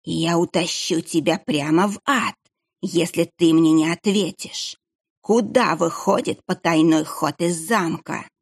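lightly voiced, slow menacing threat; sinister monk. Monk threatens to drag the boy to hell, slow menace. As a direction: threaten him calmly and slowly.

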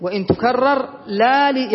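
slow repeat of the verse; slow verse recital. Shown as a demonstration. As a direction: read it out slowly again. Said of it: "إذا كررنا إلا". (إعادة بطيئة للبيت)

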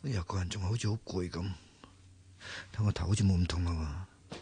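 sleepy half-voiced musing; tired mumble. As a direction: mutter to yourself, still worn out.

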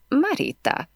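high strained groan of a name. A narrator's reading. Scared narrator answering angry Emily, strained groan. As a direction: blurt the name with a frightened groan. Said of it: "nyögtem".

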